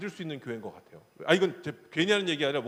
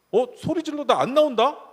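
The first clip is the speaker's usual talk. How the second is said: higher, louder cheeky threat; kid's threat; 8 semitones higher, 6 dB louder than usual. Retold or imitated. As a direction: bargain like a bratty child. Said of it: "이러고 협박을 해요". (협박하는 건방진 아이)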